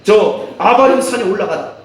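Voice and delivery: emphatic preaching, high peaks. Acted. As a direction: preach it out with force. Preaches at full force. (힘주어 외치는 설교)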